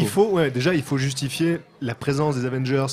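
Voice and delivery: talking while crunching chips. Real, not acted. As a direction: mouth full of chips, chewing through words. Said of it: "c'est les chips au paprika".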